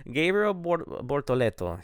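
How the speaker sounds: Gabriel Bortoleto said with a Latina accent. Shown as a demonstration. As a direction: roll Bortoleto out in a Latina accent, high and loud. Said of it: "I'm just gonna say his name with a Latina accent".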